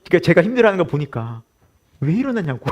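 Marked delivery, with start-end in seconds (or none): 2.0-2.6 wife's exasperated shout. Retold or imitated. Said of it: "저희 아내는 그래요".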